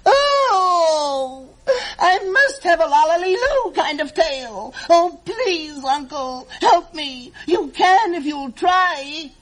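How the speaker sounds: whiny tantrum, crying out; wailing plea. Acted. Gertrude wails to her uncle for a pill, tearful. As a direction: beg your uncle through tears. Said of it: "She let out a wail".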